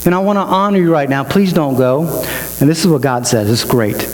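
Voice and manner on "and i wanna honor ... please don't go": retold delight, pitched a little higher; mildly excited, acting out someone thrilled to be noticed; excited Gideon. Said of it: "He's loving this conversation".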